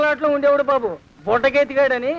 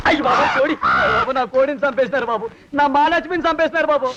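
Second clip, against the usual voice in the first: wailing shout. Acted. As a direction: cry out in comic grief. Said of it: "అరవకయ్యా".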